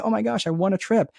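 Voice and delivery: mock-thrilled squeal; excited. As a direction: sell it like the best news ever. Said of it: "You'd be excited about it".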